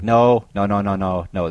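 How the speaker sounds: loud first no, then easing; mock-panicked viewer pleading with the screen; alarmed protest. Acting out viewer protesting at film.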